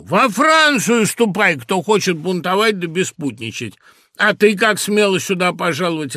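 loud, high, angry scolding; menacing father. A narrator's reading. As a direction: thunder at the household in outrage. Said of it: "грозный голос, голос моего отца". (грозный крик отца)

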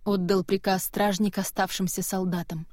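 ordinary delivery, nothing marked

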